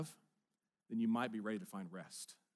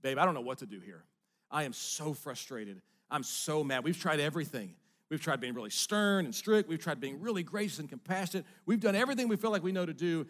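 exasperated venting to his wife, building louder and faster to the end; frustrated venting; 2 semitones higher, 4 dB louder than usual. Retold or imitated. Husband vents to his wife on the couch, mildly exasperated. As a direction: let the frustration pile up line by line. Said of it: "I was just venting".

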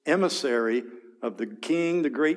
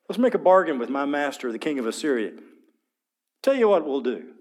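taunting arrogance; 3 dB louder, faster than usual. Acted. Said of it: "now here's this taunting arrogance".

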